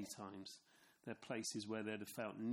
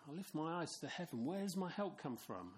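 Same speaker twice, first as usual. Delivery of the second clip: higher, questioning pilgrim voice; a lightly higher pilgrim asking; first pilgrim asking; 6 semitones higher than usual. Acted. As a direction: ask it like a weary walker looking up. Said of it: "imagine one going".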